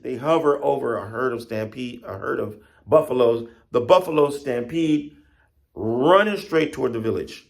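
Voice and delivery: lively folk-tale narration; animated storytelling. Acted. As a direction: build the stampede with energy.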